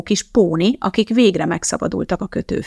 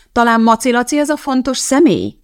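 irritated, higher and louder; annoyed correction; 5 semitones higher, 5 dB louder than usual. A narrator's reading. Teacher corrects a pupil's guess, annoyed. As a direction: correct the pupil with raised, vexed voice. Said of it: "javította ki a tanítónő bosszankodva".

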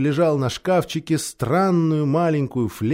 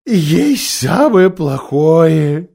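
heavy sigh; 5 dB louder, much slower than usual. A narrator's reading. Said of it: "с глубоким вздохом".

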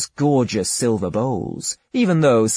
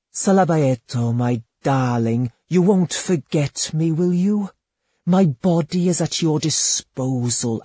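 higher, coaxing lady's voice, honeyed and intimate; seductive courtesan; 5 semitones higher than usual. Acted. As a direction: purr it to your lover like a temptress. Courtesan sweet-talks her lover.

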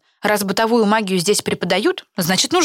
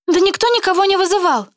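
reasonable; 12 semitones higher, 3 dB louder than usual. Acted. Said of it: "резонно сказала Каролина".

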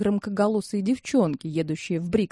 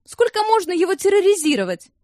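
sharp, high, louder protest; angry outburst; 10 semitones higher, 4 dB louder than usual. A narrator's reading. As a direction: snap at him to stop the bullying. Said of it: "сердито вмешалась Нина". (сердитый высокий окрик)

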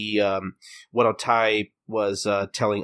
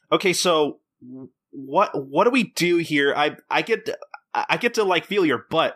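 higher, halting eager question; mock cheeky; 5 semitones higher than usual. Customer asks hostess what he gets, mock-cheeky. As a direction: imitate a customer pushing his luck.

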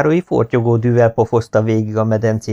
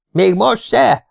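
high, loud mocking shout; 11 semitones higher, 3 dB louder, much slower than usual. Schoolboy shouting at a sleepy classmate, high loud shout. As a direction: bellow the question right into his face. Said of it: "ordítottam".

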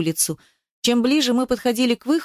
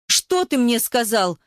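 angry blurt; 3 semitones higher, slower than usual. Acted. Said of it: "Гневно выпалила она".

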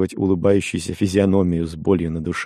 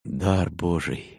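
exclaiming; 6 dB quieter, much slower than usual. A narrator's reading. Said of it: "воскликнул он".

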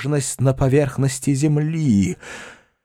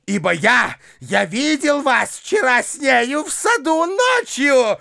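accusing rant; 12 semitones higher than usual. A narrator's reading. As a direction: hurl the accusation. Foma accusing uncle.

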